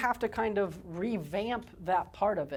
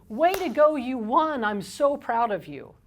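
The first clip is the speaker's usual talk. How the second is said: higher, louder cheering praise; praising cheer; 3 semitones higher, 5 dB louder than usual. Shown as a demonstration. Parent praising a child's win, loud cheering. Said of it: "It's going".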